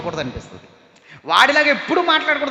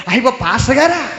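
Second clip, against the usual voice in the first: startled cry with a nervous laugh; caught-out woman's flustered laugh; caught off guard; 4 dB louder than usual. Retold or imitated. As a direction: laugh it off, embarrassed and surprised. Woman caught cursing, pastor arrives.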